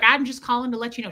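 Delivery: fast, retold brush-off; hurried brush-off. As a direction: rush through it to end the call. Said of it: "trying to let me go as fast as possible".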